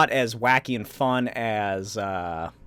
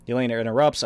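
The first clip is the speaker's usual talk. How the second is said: ordinary talk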